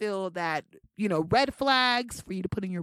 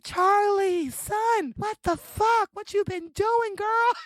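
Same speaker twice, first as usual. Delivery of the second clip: her body scolding her in a much higher, exasperated voice; 11 semitones higher, 4 dB louder, slower than usual. Retold or imitated. Her body complaining about all the holiday food, high exasperated scolding. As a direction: play your own body fed up with you. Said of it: "My body is like".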